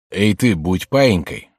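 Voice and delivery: slow, mildly barked robber's threat; a drawn-out, bullying command; barked order. Acted. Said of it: "рявкнул один". (грубоватый окрик грабителя)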